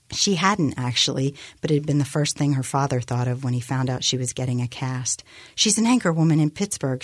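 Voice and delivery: measured novel reading; story narration. A narrator's reading. Author reading her novel to a radio audience, measured narration. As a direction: read the scene out evenly as a narrator.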